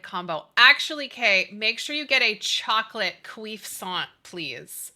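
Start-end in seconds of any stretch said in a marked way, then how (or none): 1.1-4.9 cuisson said with a French nasal ending; mock French. Shown as a demonstration. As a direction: fake French word, lightly done. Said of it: "That's the French version".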